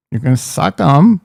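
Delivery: "suck 'em" with a rise on "'em" in a light Walken cadence; Christopher Walken impression. Out of practice, he retries a faint Walken impression. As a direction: try Walken's halting lilt on "suck 'em". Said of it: "Christopher Walken".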